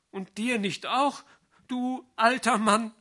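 high, fond playful reproach; tender teasing girl. A narrator's reading. Vrenchen gently teasing Sali, high and fond. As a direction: tease him back lovingly.

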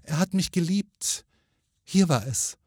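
lightly voiced ghost lady, high; high, mildly plaintive recollection; wistful ghost woman. A narrator's reading. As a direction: remember a lover as a gentle spirit. Ghost woman defends her lover.

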